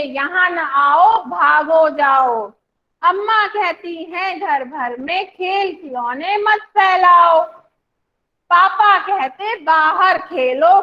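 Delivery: slow, sing-song poem reading; teacher leading a class poem reading; poem recitation. Shown as a demonstration. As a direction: recite slowly so the class can follow. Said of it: "बोलना है साथ में".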